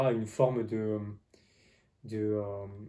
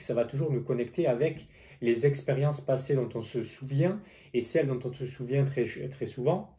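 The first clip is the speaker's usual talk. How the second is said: slight lisp on the s sounds; tired lisp after many videos. Real, not acted. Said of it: "je zozote parfois".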